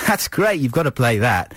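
mock delight, pitched high then settling; imitated amused enthusiasm. Host acting out the reaction he wanted from his colleague, mock delighted. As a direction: imitate someone doubling up at a great joke. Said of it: "doubling up laughing and going".

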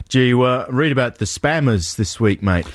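put-on Australian newsy chat; Australian accent. Co-host tells his mate spam news, Australian accent. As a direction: read the news like an Aussie mate. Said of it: "Why are you saying it in an Australian accent?".

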